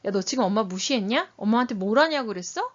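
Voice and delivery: acted parent snapping back; mildly heated accusation, pushed a little; angry parent. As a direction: challenge the child back in mock anger. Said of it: "화가 너무 나니까".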